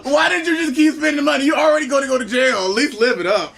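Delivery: high-pitched, laughing taunt. Real, not acted. Cohost ribbing Miss Jackson about spending, laughing. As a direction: say it high through real laughter. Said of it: "You really laughing at him".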